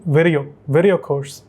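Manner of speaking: native English accent, VIDEO as "virio"; imitated native accent. Shown as a demonstration. Teacher showing students the native English accent on video. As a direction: mimic how natives soften VIDEO in their accent. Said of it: "कुछ इस तरह से बोलते हैं".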